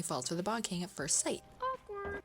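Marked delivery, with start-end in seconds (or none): 1.6-2.2 mock awkward.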